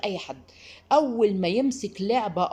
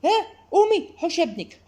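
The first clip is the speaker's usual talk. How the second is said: high, loud mock alarm; alarmed relative; 9 semitones higher, 5 dB louder than usual. Grandmother warning the mother about her son, hammed-up alarm. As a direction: sound the alarm like a fussy relative. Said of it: "فاللي بيحصل ايه".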